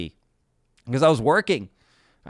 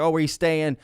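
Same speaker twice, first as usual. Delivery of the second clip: raised, badly imitated English accent; amateur English accent; horrific English accent; 7 semitones higher, 4 dB louder than usual. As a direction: play the English friend asking, in a bad English accent. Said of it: "that's my horrific English accent".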